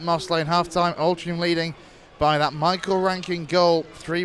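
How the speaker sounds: steady radio match commentary; live play-by-play. Acted. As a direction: call the match as it unfolds.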